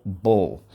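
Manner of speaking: "bull" said alone, short; third syllable bull. Shown as a demonstration. Teacher giving the last syllable of enable. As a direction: end on "bull". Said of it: "Third syllable".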